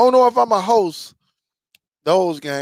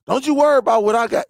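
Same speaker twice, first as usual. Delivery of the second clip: fast, loud comeback, hammed-up; mock defensive shout; 4 semitones higher, 5 dB louder, much faster than usual. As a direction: snap back fast and loud like the guy did. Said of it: "And then he gonna say".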